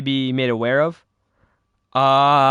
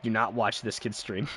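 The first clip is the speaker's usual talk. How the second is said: mock viewer quote; 4 semitones lower, 10 dB quieter than usual. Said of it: "They're gonna be like".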